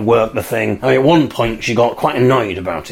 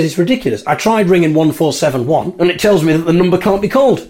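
higher-pitched, put-out protest; indignant complaint; 6 semitones higher than usual. Retold or imitated. Dad's fiancée complaining the number can't be called, indignant. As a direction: complain as if the phone is at fault.

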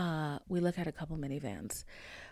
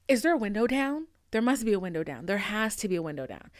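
mock panicking; 6 dB louder, faster than usual. Mom hearing loud road noise, mock panicked. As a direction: rattle it off, alarmed. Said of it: "I could hear her panicking".

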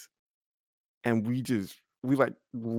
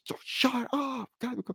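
exasperated hush; 13 semitones higher than usual. Retold or imitated. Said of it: "Kelly and Shelby are just".

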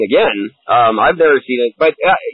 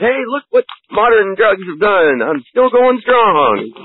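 acted quote; 6 semitones higher, slower than usual. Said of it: "and he goes".

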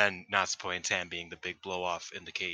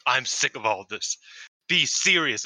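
louder, stern mock complaint; Lance Storm; 3 semitones higher, 4 dB louder than usual. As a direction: lightly imitate a fed-up wrestler, rising on the demand. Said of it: "sounds like if Lance Storm".

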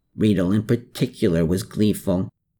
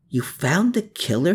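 gasped; 7 semitones higher than usual. A narrator's reading. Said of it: "he gasped".

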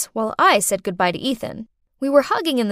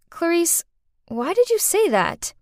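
calm question; 7 semitones higher than usual. Acted. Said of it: "calmly said".

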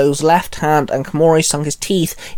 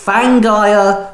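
loud, higher warning shout; barked warning; 6 semitones higher, 4 dB louder than usual. A narrator's reading. Penny warning Shinzo the man is a monster, sharp loud shout. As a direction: bark it out as an alarm. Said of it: "she barked".

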